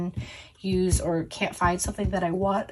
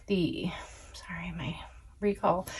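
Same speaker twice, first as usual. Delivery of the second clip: breathy whisper to herself; 6 dB quieter than usual. Real, not acted. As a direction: mutter it under your breath. Muttering while trying to recall.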